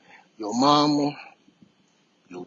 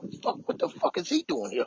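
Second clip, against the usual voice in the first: much higher, frantic mock panic; panicked high squeak; 13 semitones higher, 5 dB quieter than usual. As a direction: squeal it in comic alarm. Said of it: "I said out loud".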